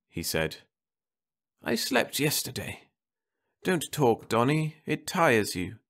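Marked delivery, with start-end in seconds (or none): 1.6-5.8 wife's voice lifted higher and gentle; anxious wife at the sickbed; Martha's voice. A narrator's reading. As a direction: voice the worried wife, pitched up.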